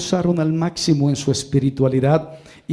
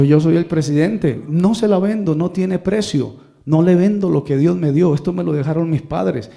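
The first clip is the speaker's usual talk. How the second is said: defiant refusal; 3 semitones higher than usual. Retold or imitated. Man defiantly refuses to sell.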